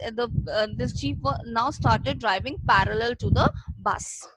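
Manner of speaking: ordinary talk, nothing marked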